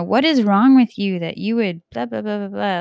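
a hint of a loud lashing out; mock verbal abuse. Scolding a loved one over character flaws, mock harsh. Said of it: "verbal abuse".

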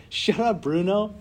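telling the fear voice to shut up; mock shout. Friends hear her mock-shout the movie line loudly. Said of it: "you just gotta say".

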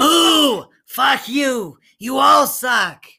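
high, loud heckling yell; mock quarrel shouting. Game master joins in the smiths' argument, mock quarrel shouting. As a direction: shout playful abuse at everyone.

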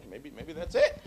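high, gentle laugh-through agreement; careful kind reply to a big angry guy; kindly, laughing. Retold or imitated. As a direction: soften it with a nervous laugh. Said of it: "so I said it really kindly".

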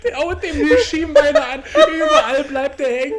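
laughing while talking; words broken by laughter. Real, not acted. Laughing hard while speaking. (unter Lachen gesprochen)

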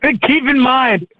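high, slow words squeezed out through laughter; laughing so hard the words stretch out. Real, not acted. Telling the punchline to friends, laughing high and slow. Cracking up at his own story.

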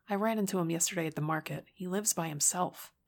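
deep flat quick tone; deadpan it; flat delivery. Acted. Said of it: "her deep tone a little flat in its delivery".

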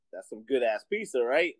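lightly voiced owner, pitched low; low voice, checking for approval; a hint of a pleased owner; shop owner. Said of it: "He comes over, like".

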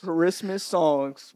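slow drawn-out announcer voice. Acted. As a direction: stretch it like a promo. Echoes in slow announcer drawl.

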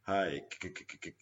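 mock stammer on the k of "Kiran"; stuttering Kiran. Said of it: "Sunny Deol's like".

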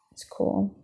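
whispered. Retold or imitated. Calmed inner voice settles.

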